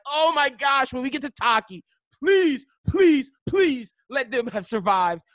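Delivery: high, loud, drawn-out mock plea; pleading. Viewer begging the film to spare the town, pleading. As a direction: beg with each please stretched out. Retelling desperate hope while watching.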